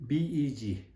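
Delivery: B E G said letter by letter; spelled out letters. Shown as a demonstration. Teacher spelling the English word beg for students. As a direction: spell out B E G, one letter at a time. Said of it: "to beg".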